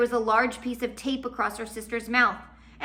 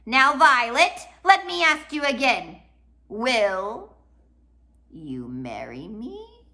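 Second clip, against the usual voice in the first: insistent demand; 4 semitones higher, 7 dB louder, slower than usual. Acted. Olaf demands answer.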